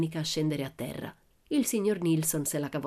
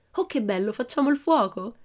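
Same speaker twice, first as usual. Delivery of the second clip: high, delighted outburst, growing louder; excited exclamation; 6 semitones higher, 4 dB louder than usual. A narrator's reading. Annika sees the campfire being made, exclaiming excitedly. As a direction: exclaim with glee, pitch lifted. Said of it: "esclamò Annika".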